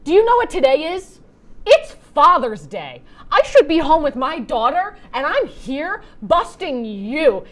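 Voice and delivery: hammed-up heartfelt plea; impassioned speech. A rapper ranting about Father's Day, loud hammed-up speech. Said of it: "in which he says".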